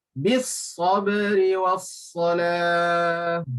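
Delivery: Bis sabri was salah slow, sad heavy and full; slow recitation with heavy sad; thick sad. Shown as a demonstration. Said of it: "Sad dibaca tinggi". (bacaan Bis sabri was salah dengan sad tebal)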